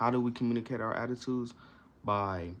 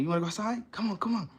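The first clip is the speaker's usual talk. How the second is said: high-pitched excited coaxing of a dog; eager, squeally-high pet talk; enthusiastic; 11 semitones higher, much faster than usual. Shown as a demonstration. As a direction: egg the dog on, pitch climbing. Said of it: "I'm saying it, like, enthusiastically".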